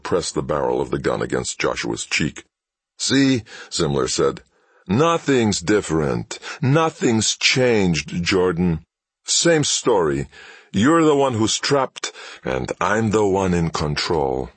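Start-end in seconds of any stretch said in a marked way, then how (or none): 3.0-14.5 high, slow, gloating menace; menacing villain. Acted. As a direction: lean in and taunt with menace. Villain pressing gun to cheek.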